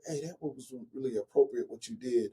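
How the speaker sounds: softened voice, mimicking a whisper to a child; mock a discreet word in her ear; retold whisper. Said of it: "I'll whisper in her ear".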